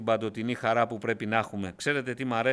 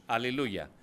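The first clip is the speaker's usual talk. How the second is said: ordinary talk, nothing marked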